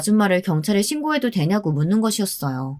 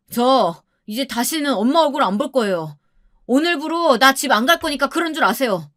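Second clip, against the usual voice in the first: higher, reproachful son, moderately acted; angry, disappointed son; 5 semitones higher than usual. Son on the phone rebuking his mother, angry and disappointed. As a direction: scold the mother with hurt anger. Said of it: "정말 화가 났고 실망한 것 같았습니다".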